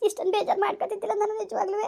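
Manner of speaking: holding back a sob as she speaks; tearful. Real, not acted. Woman telling her aunt her troubles, near tears. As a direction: voice cracking into tears.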